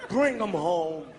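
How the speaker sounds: low, gruff mock white politician; white officials. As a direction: play a stern old official rallying the room. Voicing white officials' meeting.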